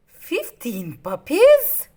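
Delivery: slow, loud, thrilled gasp of a question; greedy delight at the news; excited. Acted. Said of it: "Cruella said excitedly".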